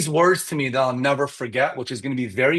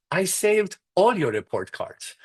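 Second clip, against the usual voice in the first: put-on Persian accent; 4 semitones higher, slower than usual. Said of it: "use a Persian accent".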